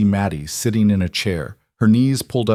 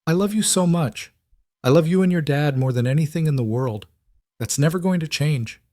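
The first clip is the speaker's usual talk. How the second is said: higher-pitched heartfelt reassurance; tender, earnest; 7 semitones higher than usual. Acted. Woman assures the girl of her love, tender.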